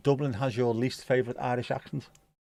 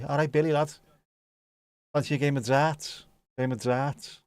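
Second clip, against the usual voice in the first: put-on Scouse accent; 2 semitones higher than usual. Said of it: "people from Copenhagen just sound like Scousers".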